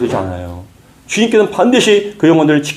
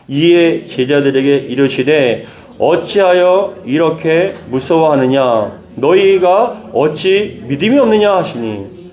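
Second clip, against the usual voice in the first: slow, solemn Bible reading; scripture reading aloud; slower than usual. Shown as a demonstration. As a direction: read the verse slowly for the congregation to follow. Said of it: "사십 절입니다".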